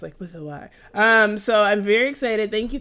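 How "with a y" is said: soft, low, seductive; sexy voice. Shown as a demonstration. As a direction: breathe it out low and sultry. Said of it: "you have to use, like, a sexy voice".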